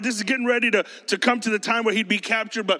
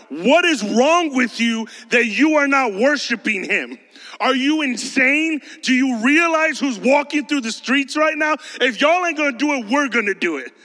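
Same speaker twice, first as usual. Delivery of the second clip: outraged rocks; 3 semitones higher, 3 dB louder than usual. Pretend. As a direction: berate them in disbelief as the scandalized rocks. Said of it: "The rocks are going".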